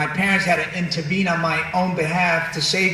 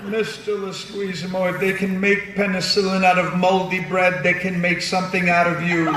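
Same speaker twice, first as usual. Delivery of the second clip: lightly voiced math teacher; a hint of a formal schoolteacher. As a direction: imitate a teacher lecturing a pupil. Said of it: "my math teacher in particular".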